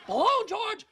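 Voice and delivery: very slow, high, loud stretched-out "Blown"; blown away. Acted. Boss marveling at George's double life, slow, high, loud. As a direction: stretch every "blown" out in amazement.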